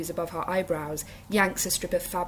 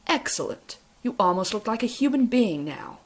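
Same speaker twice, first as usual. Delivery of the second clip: higher and louder Capitol gush; lightly voiced Capitol praise; delighted Capitol accent; 4 semitones higher, 4 dB louder than usual. A narrator's reading. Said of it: "such a high pitch".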